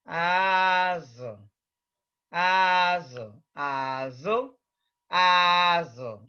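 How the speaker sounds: "azo" with the pitch going down across the word; falling tone. Shown as a demonstration. Teacher showing a class how the tone on azo goes down. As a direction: let "azo" fall in pitch. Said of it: "It goes down".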